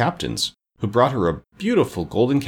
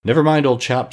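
higher-pitched chummy reassurance; mildly comforting; soothing; 6 semitones higher, 4 dB louder than usual. A narrator's reading. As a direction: cheer up a friend. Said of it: "said the Tin Woodman soothingly".

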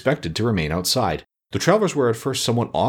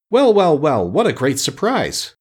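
high, loud burst of surprise; loud exclamation; 7 semitones higher, 4 dB louder, slower than usual. A narrator's reading. Tin Woodman from the next room, loudly exclaiming. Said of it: "heard a loud voice in the next room exclaim".

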